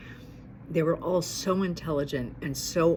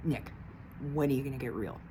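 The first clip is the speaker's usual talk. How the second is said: softer, lower repeat of the plea; 4 semitones lower, 8 dB quieter, faster than usual. Real, not acted. To Nick, repeating the plea more softly. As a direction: pull back and ask him quietly, man to man.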